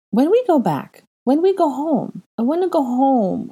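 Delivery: put-on high, whiny child's plea; pouting little boy. A narrator's reading. Little boy begging to go home, high pouting whine. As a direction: pout it like a homesick toddler. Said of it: "Aurelian pouted".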